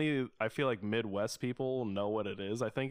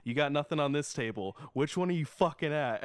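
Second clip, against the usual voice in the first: retold snap; 4 semitones higher than usual. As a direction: snap back at the old man, half-mock. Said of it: "I just fucking snapped".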